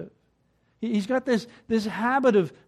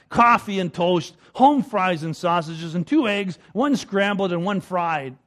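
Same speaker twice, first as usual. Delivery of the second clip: louder gruff husband, lightly played; mock growl; 4 dB louder than usual. Grumpy husband ordering breakfast from his wife, mock growl. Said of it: "he growled back".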